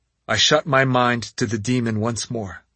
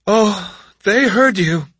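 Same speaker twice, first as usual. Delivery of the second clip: higher, knowing retort; sly girl voice; 9 semitones higher, 6 dB louder, slower than usual. A narrator's reading. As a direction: tease her with the secret. Yumeko answers the witch.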